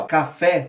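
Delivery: "café" with the last syllable "fé" stressed. Shown as a demonstration. Teacher showing students the stressed syllable. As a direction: lean on "fé" in "café". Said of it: "a gente sabe que a tônica é fé".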